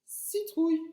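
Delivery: Citrouille said high, leaning on the I; sounding out. Shown as a demonstration. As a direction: lift the I in Citrouille. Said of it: "C'est dans la famille du I".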